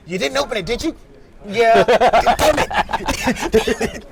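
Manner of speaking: high, lively mock phone call; acted phone call. Acting out the phone call scene.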